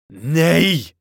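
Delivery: high, loud cry of refusal; top-of-voice shout. A narrator's reading. Curate refuses to be silenced, high loud shout. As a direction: shout it out defiantly. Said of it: "shouted the curate at the top of his voice".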